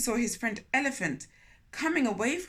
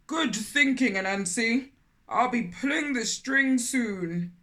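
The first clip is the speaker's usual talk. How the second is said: loud friendly elephant voice; lightly voiced elephant; 4 dB louder than usual. A narrator's reading. Elephant meets Anansi, inviting him to lunch, loud and friendly.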